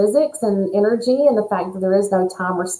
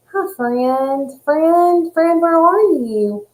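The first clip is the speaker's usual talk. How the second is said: rising sing-song calling out to a friend; friend video call; 7 semitones higher, much slower than usual. Shown as a demonstration. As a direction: call out to your friend, higher each time. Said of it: "the friend videos that I've done where I go".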